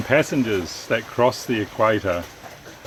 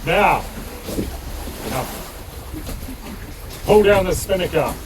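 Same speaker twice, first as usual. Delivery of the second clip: booming warrior king; 3 semitones higher than usual. Acted. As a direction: thunder the demand down from the throne. King gives orders.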